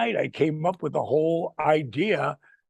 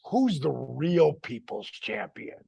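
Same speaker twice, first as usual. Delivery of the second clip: dramatic arena voice; slower than usual. Retold or imitated. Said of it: "you hear my voice".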